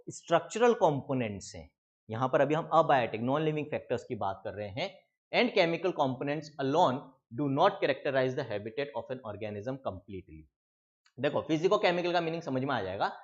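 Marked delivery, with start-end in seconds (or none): 5.3-10.4 slow, deliberate reading of the book line; slow dictation-style reading; textbook read-aloud. Acted. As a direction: read it out slowly for students to underline.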